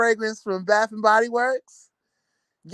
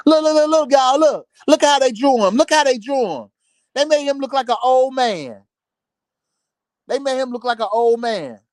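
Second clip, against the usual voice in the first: mock gossip hype; 3 semitones higher, 4 dB louder than usual. Mock gossip about drawing.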